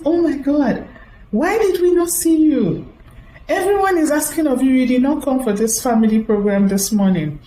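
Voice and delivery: a hint of the surprised brother on the phone; voicing the brother.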